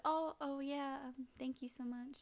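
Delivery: lightly voiced shy apology; flustered young woman. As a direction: imitate her being sweetly flustered. Voicing a tired, flustered cutie.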